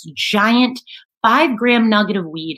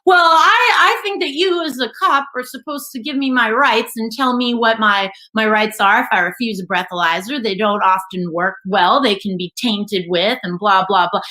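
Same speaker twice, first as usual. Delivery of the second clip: know-it-all liberal. Retold or imitated. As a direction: lecture the cop like a smart aleck. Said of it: "liberal know-it-alls from New York".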